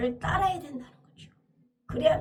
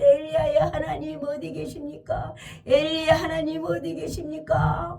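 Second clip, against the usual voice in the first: urgent calling; 3 semitones higher than usual. Acted. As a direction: demand an answer while striking the water. 물을 치며 하나님을 찾음. (하나님을 찾으며 다급하게 외치듯)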